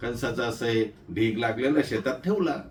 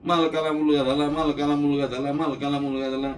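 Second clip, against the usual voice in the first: shouting on the road. Retold or imitated. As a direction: yell the news while running, then ease off. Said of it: "रस्त्यानंच बोंबलत".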